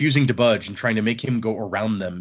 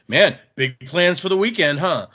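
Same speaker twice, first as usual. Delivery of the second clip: nosy teller; 5 semitones higher, 3 dB louder than usual. Retold or imitated. Teller voices nosy bank teller.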